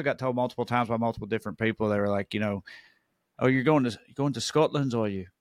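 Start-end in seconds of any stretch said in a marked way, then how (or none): 3.4-5.3 lightly put-on English accent; polite English local, imitated; imitated English person. English local telling visitors about Scottish kinship, imitated English accent. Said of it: "like, the people in England".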